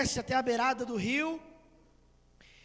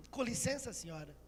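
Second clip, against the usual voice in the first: very soft, falling away; timid request; 8 dB quieter than usual. Acted. Miriam daring to address the princess, timid and hushed. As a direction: approach meekly and quietly.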